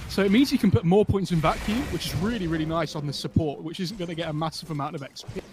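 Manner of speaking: running out of air; words squeezed on the last breath. Real, not acted. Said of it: "ran out of breath there at the end".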